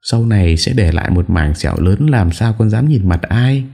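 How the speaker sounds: high, tearful whine of grievance; wife tearfully complaining to her in-laws; whimpering complaint. A narrator's reading. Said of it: "An Nhã mếu máo".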